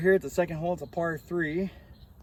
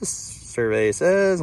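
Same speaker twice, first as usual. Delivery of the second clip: slow, loud game show announcement; game show host; 8 dB louder, much slower than usual. Acted. Reading the yardage off the watch.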